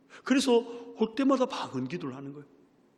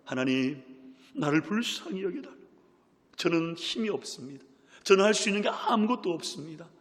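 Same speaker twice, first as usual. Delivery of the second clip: 점점 높아지는 절박한 기도 흉내; 무력함을 털어놓으며 매달리듯; 3 semitones higher than usual. Retold or imitated. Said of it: "가슴을 치고 고백하는 거예요". (가슴을 치며 고백하는 기도)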